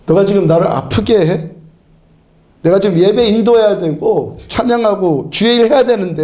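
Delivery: a hint of exasperated reprimand; mock indignant scolding. Shown as a demonstration. Preacher rebuking sickness that blocks his worship duties, mild mock indignation. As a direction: tell it off for getting in the way. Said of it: "화를 벌컥 내면요".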